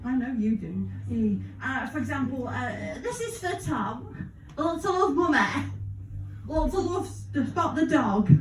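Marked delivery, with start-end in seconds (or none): 3.0-8.3 mock kids' TV presenter. Reads mock kids' TV birthday message.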